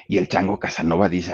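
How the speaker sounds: ordinary talk, nothing marked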